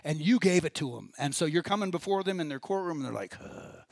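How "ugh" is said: weary groan. Retold or imitated. Imitates fed-up judges waiting to sentence.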